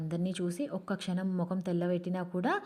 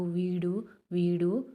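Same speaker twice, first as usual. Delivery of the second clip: sobbing; much slower than usual. Acted. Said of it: "వెక్కుతూ".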